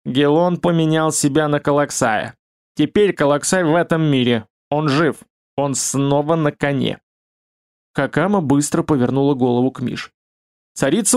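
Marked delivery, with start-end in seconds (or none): 0.0-7.0 thick, frog-like croak; fat croaking voice. Acted. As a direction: croak it out heavily like a toad. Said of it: "жирным, квакающим голосом".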